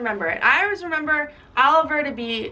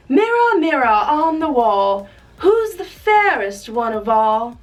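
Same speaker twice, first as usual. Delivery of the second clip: slow, loud mock witch queen; lightly voiced evil queen; 3 dB louder, slower than usual. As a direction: ham up the vain queen at her mirror. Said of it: "she goes".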